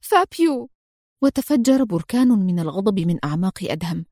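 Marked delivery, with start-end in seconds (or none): 0.0-0.7 high pained cry of a name; anguished cry. A narrator's reading. Sofia hears Fabio is dead, anguished cry. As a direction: cry out in grief. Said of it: "شهقت صوفيا وهي تهتف في ألم".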